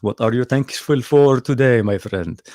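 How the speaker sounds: a put-on Arabic accent, friendly. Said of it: "I'm nailing the Arabic accent".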